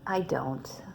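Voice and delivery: whispered, barely there; embarrassed clerk owns up softly; sheepish admission. Acted. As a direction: confess it under your breath. Clerk admitting no dog.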